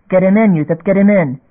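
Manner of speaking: loud urgent order; urgent command. Acted. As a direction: push it hard and loud. Urgent order over comm.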